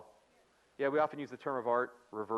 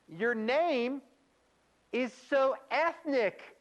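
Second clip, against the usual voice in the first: loud, very high, drawn-out exaggerated accent; hammed-up coworker gushing at high pitch; put-on coworker accent; 12 semitones higher, 5 dB louder, much slower than usual. Trainer imitating coworker to a woman about her last name, exaggerated put-on accent. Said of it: "And I add the accent 'cause it's funny to me".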